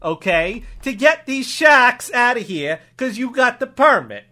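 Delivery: put-on accented officer spelling out permission; deliberate improv cop ruling; obliging cop. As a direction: lay it out emphatically as a local cop.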